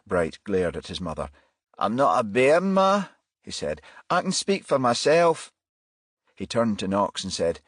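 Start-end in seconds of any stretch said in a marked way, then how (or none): 1.8-5.5 irritated. Acted. Son irritated at mother.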